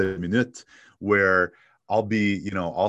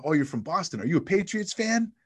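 mock showman; 11 semitones higher than usual. Comedian working the cruise crowd.

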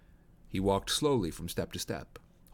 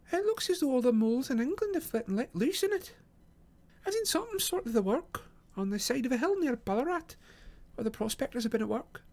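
much higher character voice; story character remarking. A narrator's reading. Companion surveys the dug-up grounds, high character voice. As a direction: pitch it high, observing with interest.

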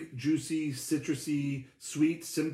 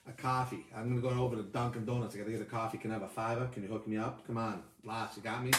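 lightly done New York hustler asking for a fiver; a hint of New York City accent, quick and casual; friendly New York City accent, mooching a fiver; 4 semitones lower, 5 dB quieter than usual. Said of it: "I just do a New York City accent in there".

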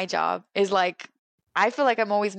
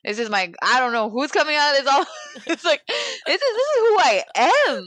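Salvadoran voice; 4 semitones higher than usual. Real, not acted. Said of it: "I feel like this is my Salvadoran voice".

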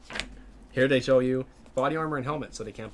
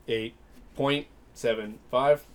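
slow, drawn-out score with long pauses; exaggerated cartoon intonation; slower than usual. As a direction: stretch each number out oddly. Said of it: "Why are you talking like this?".

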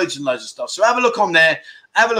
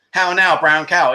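slow, lightly hammed-up posh English vowels; a touch of mock upper-class English. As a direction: send up a plummy officer-class elocution drill, slowly. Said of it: "a bit posh".

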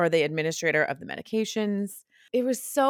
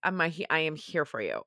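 sincere reassurance; 3 semitones lower, 5 dB quieter than usual. Real, not acted. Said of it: "I'm so sorry if this is triggering".

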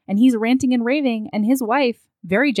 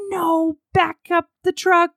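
firm refusal; 9 semitones higher than usual. Retold or imitated. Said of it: "And Dido's like".

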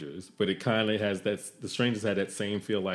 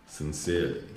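booming arrogant alien overlord; 5 semitones lower, 4 dB quieter than usual. Acted. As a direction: gloat over the puny humans. Villain outro voice.

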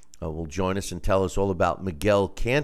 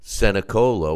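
grand entrance announcement; 4 semitones higher, 10 dB louder than usual. Acted. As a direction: ring announcer intro, building louder. Boxing ring style introduction.

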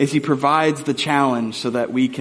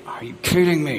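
retold simmering exasperation; slow burn. Dad fuming through half the river float, slow burn. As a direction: seethe under your breath, mock-frustrated. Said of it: "kind of the slow burn".

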